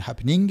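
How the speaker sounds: "happening" with an English final velar ng. Shown as a demonstration. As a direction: end "happening" on the English ng sound. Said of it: "si je dis".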